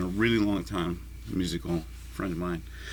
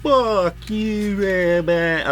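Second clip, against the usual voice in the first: frustrated fussing; 11 semitones higher, 4 dB louder than usual. Real, not acted.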